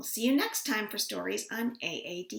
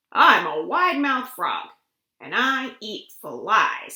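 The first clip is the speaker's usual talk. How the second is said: a lightly voiced frog, louder and boastful; a hint of a boastful frog; proud frog voice; 6 dB louder than usual. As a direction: announce yourself like a cocky little frog. Frog introduces himself.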